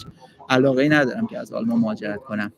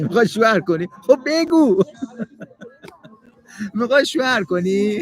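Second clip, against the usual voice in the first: teasing laugh; 7 semitones higher than usual. Real, not acted. Teasing the interviewer about husband-hunting.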